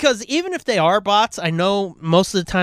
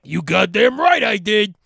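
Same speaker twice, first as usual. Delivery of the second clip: proud shout; 3 dB louder than usual. Retold or imitated. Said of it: "And I went".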